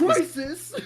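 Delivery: high, loud startled question; shocked at the word; surprised. Real, not acted. Mishears game title as crisis.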